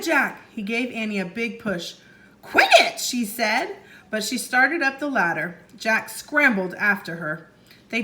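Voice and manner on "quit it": put-on high protesting child; annoyed. A narrator's reading. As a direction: push back, irritated. Annie protests being pushed.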